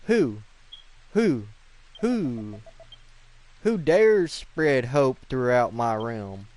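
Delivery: loud, drawn-out villain challenge; menacing Hades Condor. Acted. Boss challenging whoever spreads hope, loud and imperious. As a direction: boom it out like an offended tyrant bird.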